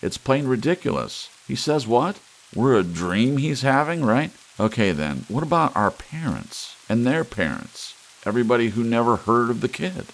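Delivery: overcompensate, loud to hide fear; too loud. A narrator's reading. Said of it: "somewhat too loudly".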